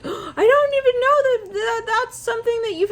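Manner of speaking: gasped, high and stretched-out mock astonishment; acting very surprised. Reader imitating someone who feigns ignorance, acting very surprised. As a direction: overplay the shock, slow and high. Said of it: "maybe acting, like, very surprised".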